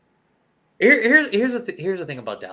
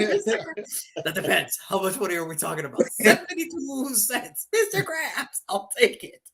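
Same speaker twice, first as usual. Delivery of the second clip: cartoon trade scene; 4 semitones higher than usual. Acting the SpongeBob trade to co-host, playful voices. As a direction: act out the cartoon haggle. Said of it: "that SpongeBob episode".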